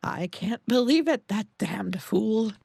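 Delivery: a wrathful ancient guardian scolding an intruder; grinding stone statue. Acted. Guardian learns of new owner.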